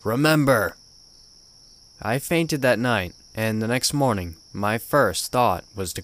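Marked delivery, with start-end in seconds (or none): 0.0-0.8 put-on old gruff voice. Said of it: "in an old familiar gruff voice he said".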